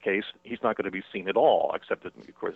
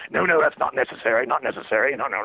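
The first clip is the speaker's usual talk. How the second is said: higher, louder flustered protest; flustered refusal; 5 semitones higher, 5 dB louder than usual. Retold or imitated. Rains refusing free tickets from the manager, flustered protest. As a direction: wave the fuss away, embarrassed. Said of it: "Rains says".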